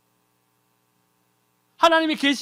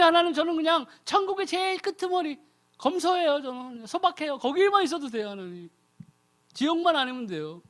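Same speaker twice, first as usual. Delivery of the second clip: higher, meek mock-modest pleading; falsely humble prayer; 4 semitones higher than usual. Preacher mimics a fake-humble prayer, high and meek. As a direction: play the humble saint. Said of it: "이렇게 기도한다는 거예요".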